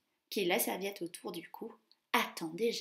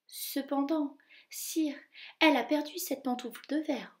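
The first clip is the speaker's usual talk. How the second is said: higher nervous courtier; timid duke; 5 semitones higher than usual. Acted. Grand duke answering the angry king, nervous. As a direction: plead carefully with the king.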